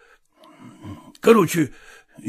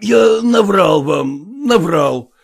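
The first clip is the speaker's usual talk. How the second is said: louder, slow, anguished admission; loud confession; 3 semitones higher, 4 dB louder, slower than usual. Acted. Father confesses his lie to the professor, loud and slow. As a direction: blurt it out like a guilty confession.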